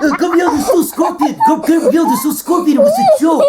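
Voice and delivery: high, loud laughing reveal. Real, not acted. Laughing as he tells Camille there was no scorpion. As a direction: laugh through the confession.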